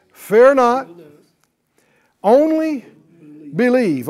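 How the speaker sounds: proclaimed loudly. Acted. Preacher proclaims Jesus' words.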